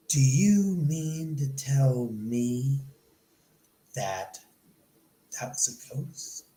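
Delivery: slow, fading to a hushed whisper; awed dread. Retold or imitated. The date realizing it was a ghost, slow awed whisper. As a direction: let the realization creep in, then whisper.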